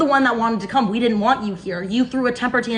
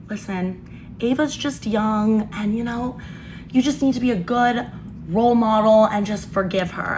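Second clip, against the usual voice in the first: placating dad. Retold or imitated. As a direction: gently talk someone down, in retelling. Dad's placating talk, retold.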